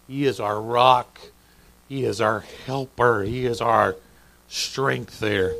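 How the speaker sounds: slow, measured declaration of faith; quietly triumphant. Acted. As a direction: proclaim it steadily, phrase by phrase. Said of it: "very quietly, very triumphantly says".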